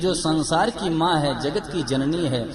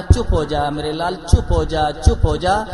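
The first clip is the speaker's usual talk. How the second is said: louder scolding shush, growing insistent; hushing mother; 7 dB louder than usual. Acted. Mother scolding her crying baby to hush, louder.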